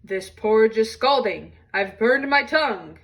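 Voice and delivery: a big papa bear burnt by hot porridge; Papa Bear grumbling. Acted. Papa Bear to his family, complaining loudly about scalding porridge.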